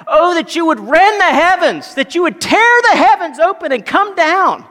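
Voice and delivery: loud, high, impassioned plea; crying out in prayer. Acted. Exiled Israel praying to God, crying out loudly. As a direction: cry it out to heaven, drawing out the words. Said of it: "and they cry out".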